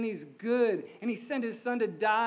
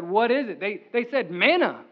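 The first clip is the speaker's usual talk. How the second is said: Israelites asking; 6 dB louder than usual. Retold or imitated.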